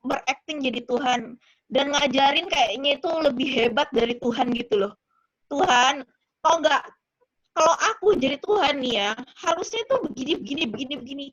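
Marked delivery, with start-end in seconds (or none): 5.5-11.3 bossy mock dictation, pushed loud at first; acted-out presumptuous instructions; dictating to God. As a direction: lecture God on how it should be done. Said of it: "Mulai dite Tuhan".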